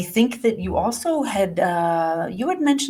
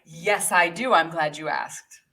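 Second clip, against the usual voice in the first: mock confidence; 6 semitones lower than usual. Shown as a demonstration. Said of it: "will confidently accept".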